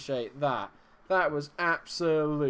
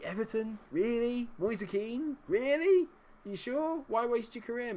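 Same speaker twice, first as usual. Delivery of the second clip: high incredulous questions; squeaky pretend disbelief at the signing; mock disbelief; 10 semitones higher than usual. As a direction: play it as if you can't believe it.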